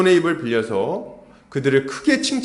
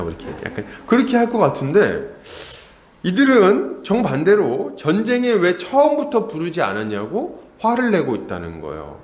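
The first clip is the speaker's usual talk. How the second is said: normal talking voice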